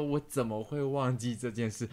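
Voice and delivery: soft, slow imitation of a granny. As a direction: recall it like a grandma to her grandkid. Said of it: "好像奶奶在跟孙子回顾".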